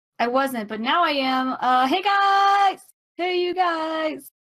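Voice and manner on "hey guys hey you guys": high yell, "guys" stretched out. Calling out to the others through a ring: yelling into the ring. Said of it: "the speaker yelling into the ring".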